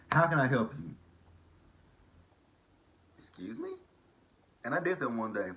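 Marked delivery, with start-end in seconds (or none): 0.1-1.0 loud, raised drive-thru greeting with a rude edge; loud drive-thru worker. Retold or imitated. Imitating the drive-thru girl at Church's, loud and rude. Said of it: "It's like you're going to McDonald's". 3.2-3.7 very high, soft startled question; shocked excuse me. Retold or imitated. Taken aback by the cashier's rude greeting, very high. Startled reply at drive-thru.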